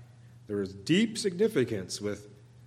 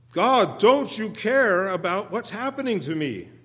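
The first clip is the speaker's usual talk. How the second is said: pleading psalmist; 8 semitones higher, 5 dB louder than usual. Acted. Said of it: "will ask God".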